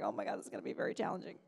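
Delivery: fast, whispered fretting; whispered worry. Retold or imitated. Recalling the singing job, fast whispered panic. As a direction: rush it under the breath.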